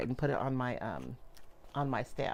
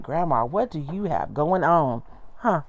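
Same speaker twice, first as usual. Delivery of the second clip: voicing the baby; 5 dB louder than usual. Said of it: "looking at my table like".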